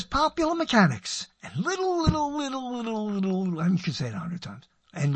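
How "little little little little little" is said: high run of words gliding steadily down; stretched-out repetition. Acted. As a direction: repeat it like a sliding, fading echo. Riffing on a repeated word.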